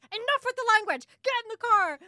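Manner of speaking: hammed-up mom scolding her son at full volume; furious mother. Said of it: "She hates that word more than anything".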